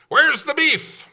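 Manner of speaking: put-on very high, loud old-lady squawk; slow, high-pitched old lady demand; little old lady. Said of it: "there was this little old lady".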